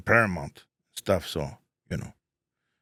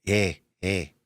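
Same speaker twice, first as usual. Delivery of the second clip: imitating landlord Ray; 3 semitones lower, 3 dB quieter than usual. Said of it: "I would always talk like that".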